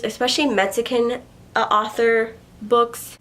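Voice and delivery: stumbling, halting over "Mexican, uh, author books"; oddly said. Real, not acted. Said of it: "I said that so weird".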